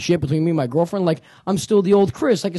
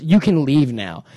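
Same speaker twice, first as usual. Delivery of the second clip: slow, deliberate imitation of a brush-off; blunt dismissal; slower than usual. Girl dismisses the man dancing near her, slow and blunt. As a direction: space out each word like a verdict. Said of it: "looks me right in my face".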